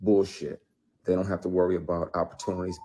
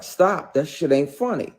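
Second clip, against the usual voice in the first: higher, firm reenacted warning; sharp retold warning; 8 semitones higher, 6 dB louder than usual. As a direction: snap it out as a retold rebuke. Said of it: "I was like".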